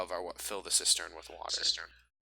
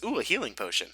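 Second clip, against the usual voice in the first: lightly excited, higher-pitched ooh; 5 semitones higher than usual. Acted. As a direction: voice a character's mild delight at a find. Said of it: "as Leon excitedly says".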